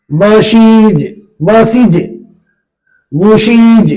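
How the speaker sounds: बशीज, बसीज, बुशीज each ending in long "eez"; correct plural pronunciation. Shown as a demonstration. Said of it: "ये बोलना है".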